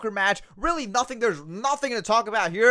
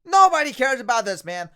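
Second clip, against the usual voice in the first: louder, higher, fed up; fed-up shout; 3 semitones higher, 4 dB louder than usual. Real, not acted. Fan yelling at the commentator, fed-up shout. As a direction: snap back at the TV.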